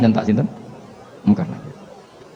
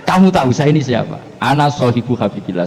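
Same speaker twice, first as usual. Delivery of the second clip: louder, pushed-up demand; defiant challenge; 3 semitones higher, 3 dB louder than usual. Acted. Umar daring the angels to know him, loud. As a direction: square up and challenge them.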